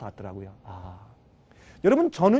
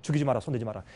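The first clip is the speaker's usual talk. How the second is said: calling out loud, then fading to a hush; a commanding divine call that softens; voice of God; 3 semitones lower, 5 dB louder than usual. Acted. God calling Abraham to stop the sacrifice, booming then hushed. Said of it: "하나님께서".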